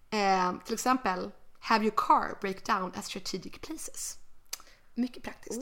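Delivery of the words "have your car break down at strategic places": slow English in a Swedish accent. Real, not acted. Co-host reads vintage dating tip aloud, slow Swedish-accented English. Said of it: "my horrible English accent".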